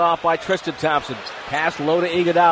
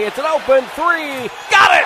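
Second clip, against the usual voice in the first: anticipation climbing into a loud high shout; build, then explode on the basket; big play-by-play payoff; excited scoring call; 8 semitones higher, 4 dB louder than usual. Real, not acted. Live call of a made three.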